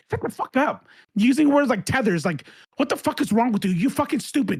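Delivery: losing it. Real, not acted. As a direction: lash out in exasperation at them. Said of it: "I just lost a little bit".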